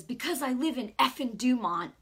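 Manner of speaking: imitated agitated local, mildly worked up. Stranger explaining why he is upset, mock agitated. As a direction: mimic a griping tough guy. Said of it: "I could see he was just agitated".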